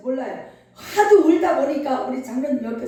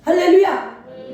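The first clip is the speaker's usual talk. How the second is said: slow, falling hallelujah; slow proclaiming hallelujah; drawn-out hallelujah; 4 semitones higher, 4 dB louder, slower than usual. Real, not acted. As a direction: stretch the hallelujah out slowly. Preacher's acclamation.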